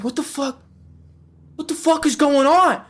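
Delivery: high, rising disbelief; retold viewer bewilderment, high; mock bewilderment. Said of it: "It's like".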